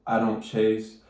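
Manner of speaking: mildly mocking robotic affirmation; robotic recital. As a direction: recite it like a stiff scripted mantra. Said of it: "Don't make it sound so robotic".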